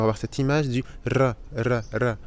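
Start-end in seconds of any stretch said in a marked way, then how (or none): 1.6-2.2 "R" rolled with the tongue in a sharp flick; tongue R demo. Shown as a demonstration. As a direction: flick the "R" with the tongue, un coup sec. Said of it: "Ce R qui se prononce avec la langue".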